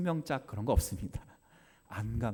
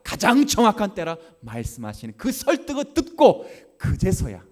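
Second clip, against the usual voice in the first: fiery preaching; 11 dB louder than usual. Acted. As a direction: preach it out, building fervor. Preaching at full force.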